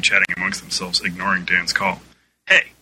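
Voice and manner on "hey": higher, slow, loud shout; louder shout. A narrator's reading. Director Dan shouting again at the ignoring crowd, louder. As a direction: really raise it now. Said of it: "Dan shouted more loudly".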